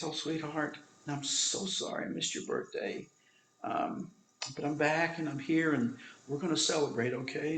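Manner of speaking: hushed, partly whispered comfort; soft tender father. Retold or imitated. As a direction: speak gently to a dying child. Father speaks softly to sick child.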